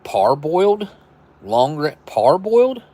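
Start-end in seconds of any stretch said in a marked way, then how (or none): 0.0-0.9 puzzled rising question. Real, not acted. Puzzled reading unfamiliar word. 2.1-2.8 pitched way up in disbelief; baffled high question. Real, not acted. Puzzled reading unfamiliar word.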